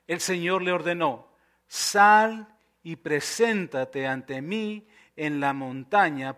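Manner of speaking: measured, solemn Bible reading; scripture reading. Acted. Preacher reading Elías and the Lord to the congregation, measured scripture reading. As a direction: read the passage out with weighted pauses.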